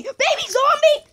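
high, slow cooing voice; cutesy baby voice. Acted. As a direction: coo it like to a baby. Cooing over the baby zombie.

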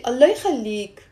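mild demonstrated plea; pleading intonation. Shown as a demonstration. Teacher showing the difference in intonation, mild pleading. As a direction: lightly beg someone for a favour. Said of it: "the difference in the intonation".

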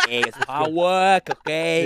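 slow, mocking Brooklyn guy; Brooklyn accent. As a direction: drag it out like a Brooklyn tough. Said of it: "Why are you turning into a Brooklyn guy?".

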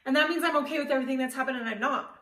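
stubborn, choked-up outburst; defiant inner rant. Retold or imitated. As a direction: dig in your heels and refuse, voice rising. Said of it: "And I just stood there like".

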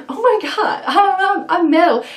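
high, giggly fake fangirl gasp; laughing mock excitement. To the viewers, giggling mock shock at being metal. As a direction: laugh through a pretend big reveal.

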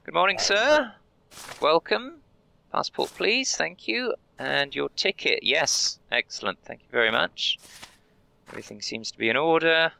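high, sing-song customer-service voice; cheery border clerk. Acted. Guard welcoming a traveller, high and chirpy. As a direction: greet each traveller like a chirpy official.

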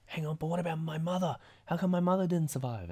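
upset Granola. Retold or imitated. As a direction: push up and out, hurt and insistent. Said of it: "Granola's like".

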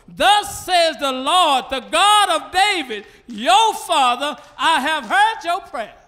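loud, slow proclamation; voice of God. Acted. God speaking to Hezekiah, loud and slow. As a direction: boom it as the Lord's word.

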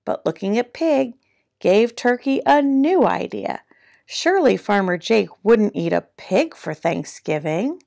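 animated picture-book narration, key words punched; lively storytime reading with swooping pitch; reading to children. A narrator's reading. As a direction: read it like a playful storyteller.

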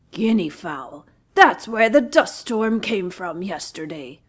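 loud slow menacing lion; growled lion. Acted. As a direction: growl through the teeth. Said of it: "growled Lion between his sharp teeth".

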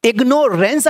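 इग्नोरेंस said as "ig-NORE-ence"; long o in इग्नोरेंस; mispronounced ignorance. Shown as a demonstration. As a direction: say इग्नोरेंस with a full "nore" in the middle. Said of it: "तो गलत पढ़ा है".

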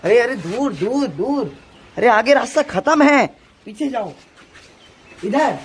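loud alarmed calling out; urgent calling out. Real, not acted. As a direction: shout a warning to stop them. Warning someone near an edge. (किनारे से रोकने की ज़ोरदार पुकार)

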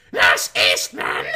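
loud, sharp, slow summons; piercing call. Acted. Head nurse snaps Nurse Eastman out of her memory with a loud call. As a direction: cut through her daydream with a bark. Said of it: "a voice splintered, shattered, pierced".

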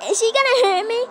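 lightly high fearful question; a hint of a scared child; mock timid voice. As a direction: ask it like a nervous little kid.

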